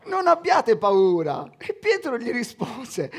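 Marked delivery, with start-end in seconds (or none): 0.1-1.5 loud and slow call; Jesus calling to the disciples in the boat, loud. Acted. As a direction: shout reassurance across the waves. Jesus calls across the water.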